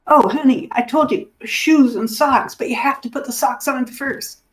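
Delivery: a husband trying to stay kind while frustrated; exasperated husband. Retold or imitated. Husband finding his wife with one bare foot, strained patience. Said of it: "and he says".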